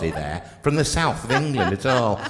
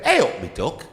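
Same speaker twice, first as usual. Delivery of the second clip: lightly voiced Derbyshire "Hey up me duck" with a rising end; a light Derbyshire lilt on "Hey up me duck", lifting at the end; Derbyshire greeting demo. Shown as a demonstration. Showing how a Derbyshire local greets you, in a lightly put-on Derbyshire lilt. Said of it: "you're supposed to go, you're supposed to say it".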